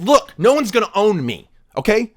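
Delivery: a loud, defiant boast, partly slowed; mock-Beethoven telling off the aristocrat. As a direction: throw your chest out and boast defiantly. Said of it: "threw his shoulders out and said".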